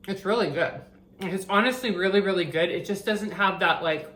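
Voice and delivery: chewing while talking; mouth full. Real, not acted. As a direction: speak around a mouthful of food. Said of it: "I'm talking with my mouth full".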